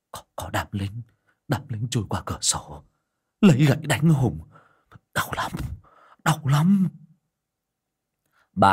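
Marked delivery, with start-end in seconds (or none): 0.1-6.9 frightened and hurting, crying out; moaning in pain. A narrator's reading. Hùng describing the soldiers beating him, pained mock cry. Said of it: "rên hừ hừ".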